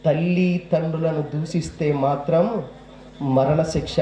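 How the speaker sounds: slow, grave divine voice; voice of God. Acted. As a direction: pronounce judgment slowly and gravely. Voice of God speaking.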